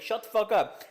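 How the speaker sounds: mock rapper snap. Imitating a rapper cutting him off.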